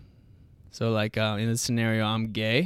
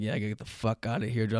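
inner voice; 5 dB quieter, faster than usual. Retold or imitated. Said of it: "in my head, I'm like".

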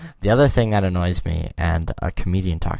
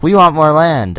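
loud, higher mock demand; hammed-up greedy declaration, pitched up; demanding America; 8 semitones higher, 9 dB louder than usual. America announcing its attack on Canada, mock demanding. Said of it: "America was like".

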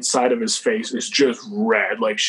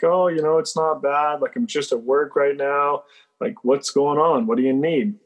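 higher, airy small talk; acted casual; 4 semitones higher than usual. Teller answering an unknown caller at work, acted casual. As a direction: retell playing it cool on the phone. Retold phone call, playing it casual.

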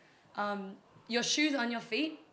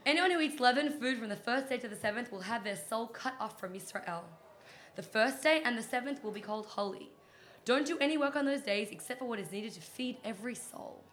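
dramatic reading; 2 semitones higher, 3 dB louder than usual. Pretend. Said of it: "It's my dramatic reading".

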